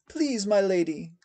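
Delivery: high pleading man, begging for his life; a desperate servant begging his mistress; frantic high plea; frightened plea. A narrator's reading.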